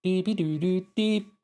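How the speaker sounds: high, slow squeaky gibberish; minion babble. Acted. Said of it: "I'm a minion".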